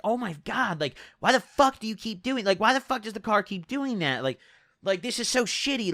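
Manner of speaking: lightly voiced whiny griping, retold; mock berating. Passenger griping about the car's jolts, mock berating. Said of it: "she just started berating my car".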